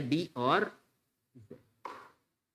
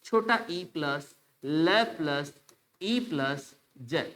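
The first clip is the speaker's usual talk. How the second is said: slow, sound by sound, छोटा ई plus ल; teacher spelling out sounds one by one; 4 semitones lower, slower than usual. Shown as a demonstration. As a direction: break the word into sounds slowly. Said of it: "तो विलेज को यदि मैं तोड़ूं".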